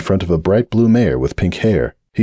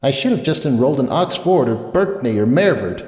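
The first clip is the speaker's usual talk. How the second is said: bitter regret; 6 semitones higher than usual. A narrator's reading. Sunburst alone at the bar, bitter and regretful. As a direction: mutter the regret with a sting. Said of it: "with another bitter sigh".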